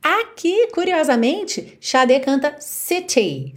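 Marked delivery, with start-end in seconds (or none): 2.6-3.5 "city" with a clear British T, said slowly; British pronunciation. Shown as a demonstration. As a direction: sound the T in "city" crisply. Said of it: "bem britânico mesmo". ("city" britânico com T marcado)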